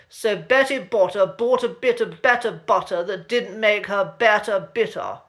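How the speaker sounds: "Betty Botter" with every T crisp and clear, posh RP; crisp posh T's. Shown as a demonstration. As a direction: read "Betty Botter bought some butter" in heightened received pronunciation, crisp T's. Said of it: "let's try the tongue twister again".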